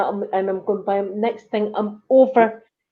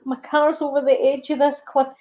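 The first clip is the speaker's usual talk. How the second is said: higher-pitched mock distress, mildly tearful; retold tearfulness; 5 semitones higher than usual. Telling a friend how she begged a stranger for help, mildly tearful. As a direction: plead helplessly, imitating being upset. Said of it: "I was crying. I'm going".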